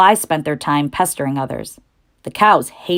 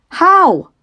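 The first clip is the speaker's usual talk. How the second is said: high, eager pleading; eager piglet voice; 13 semitones higher, 7 dB louder than usual. Acted. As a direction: ask breathlessly for rescue. Wilbur asks eagerly.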